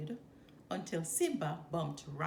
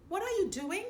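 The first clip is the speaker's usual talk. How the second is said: Rafiki surprised; 11 semitones higher, 4 dB louder, faster than usual. A narrator's reading. Voices Rafiki.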